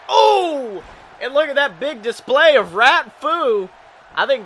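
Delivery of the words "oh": surprised. Acted. Sudden big move in match.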